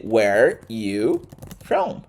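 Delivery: slow demo of "Where you from" without "are"; dropped "are". Shown as a demonstration. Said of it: "Você corta o are".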